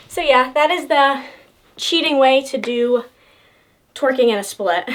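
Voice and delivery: out of breath, panting between words; talking while winded from dancing. Real, not acted. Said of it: "I'm sorry if I'm out of breath".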